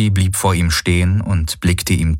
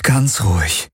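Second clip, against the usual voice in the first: calming himself; 3 semitones higher than usual. A narrator's reading. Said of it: "sagte er sich".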